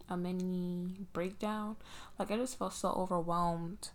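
talking around a retainer; slightly lisped retainer speech; wearing a retainer. Real, not acted. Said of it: "because I have my retainer in".

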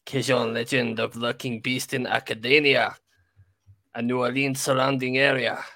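hammed-up French accent reading; bad French accent. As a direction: read it in a weak French accent. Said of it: "Should I do it in a French accent".

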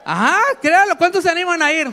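loud, high rallying cry to the crowd; excited call. Real, not acted. Preacher rousing the congregation.

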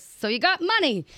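high-pitched mimicked question; imitated nosy comic. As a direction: quote the probing question up high. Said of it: "And he goes".

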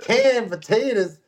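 incredulous echo. Retold or imitated. Husband retelling his wife's reaction to canned potatoes, incredulous.

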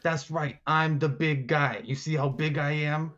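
lightly voiced boastful boss; a hint of a booming big shot; the big guy. Boss confirming he's the big guy, lightly voiced boast. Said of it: "you hear this booming voice".

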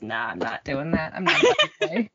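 lightly voiced cat backing down from mischief; mock-innocent pet talking back; cat's reply. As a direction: give the cat a small voice of innocent denial.

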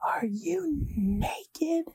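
breathless whispered gasp of a question; teacher catching a student undressed, hushed and horrified; shocked whisper. Retold or imitated. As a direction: whisper it high, aghast, very slowly. Shocked teacher pushing door open.

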